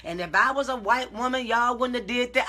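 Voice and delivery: loud, hammed-up pretend rant at the store; mock showing out. Woman imagining telling off the shoe store, mock loud rant. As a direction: play the customer she could have been, going off. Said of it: "And I could have went".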